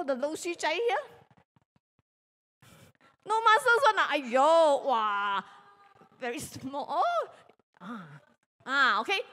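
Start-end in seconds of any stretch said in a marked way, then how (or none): none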